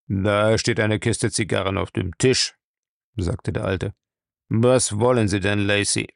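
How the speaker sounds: lightly voiced old boss, unimpressed; a hint of a curt old man; gruff old master. Master brushes off his servant's complaint, lightly gruff.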